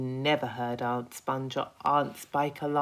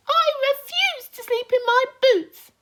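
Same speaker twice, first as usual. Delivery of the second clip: much higher, loud proud boast; grinning pest; 12 dB louder than usual. Acted. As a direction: announce it with a broad grin. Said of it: "the Centipede cried".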